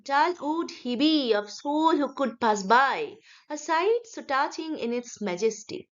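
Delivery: slow, measured verse with swinging stresses; metrical poem reading. Shown as a demonstration. Teacher shows students how to read the poem, metrical chant. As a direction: read the verse slowly, lifting every stressed beat. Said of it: "তো আমরা কবিতাটাকে কেমন করে পড়বো?".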